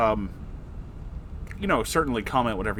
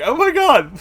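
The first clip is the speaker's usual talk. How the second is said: much higher, louder happy squeal; delighted squeal; 11 dB louder than usual. Real, not acted. Creator thrilled by fans' videos, squealing with joy. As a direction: burst out with real joy. Overjoyed reading fan art praise.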